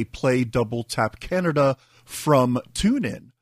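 slow, clear spoken command. Shown as a demonstration. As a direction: spell it out slowly for the device. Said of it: "you can also just say".

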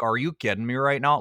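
a touch of a deep anchor voice; lightly imitating Megyn Kelly's low delivery. To a friend, mimicking Charlize as Megyn Kelly, deep. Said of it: "it was deep down here".

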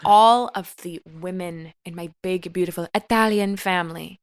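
hammed-up sentimental storytelling; mock emotional. Host shares family recipe backstory, mock-sentimental. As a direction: tell it with tender, weighted pauses. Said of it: "I'm getting emotional".

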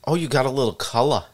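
imitated Long Island local's remark; lightly put-on Long Island accent. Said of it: "first sign of spring on Long Island".

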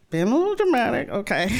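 high, quick teasing; gently mock the drama. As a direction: friend teasing her, high and fast. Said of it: "just crying".

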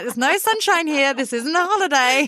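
mother retorting to family back home, mock indignant; mock exasperated retort. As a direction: toss it back at the relatives with playful outrage. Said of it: "I'm like".

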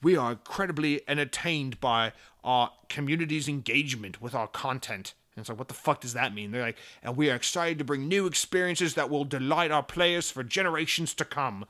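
lightly voiced corporate PR speak; mock a bland press statement; a hint of smug executive; corporate spiel. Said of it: "and being like".

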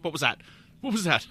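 freaking out. Acted. Crew alarmed at a speed nobody has reached before, freaking out. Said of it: "where they're all freaking out".

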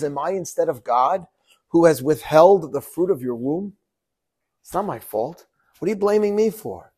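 a touch of indignant anger, rising high at the end; husband angrily pushing back at his wife's accusation; angry retort. Acted. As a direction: snap back defensively. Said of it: "Jacob became angry".

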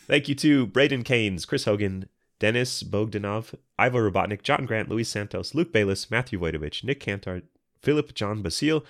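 reading names while sick. Real, not acted. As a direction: voice of someone who's unwell. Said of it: "read their names in a sick voice".

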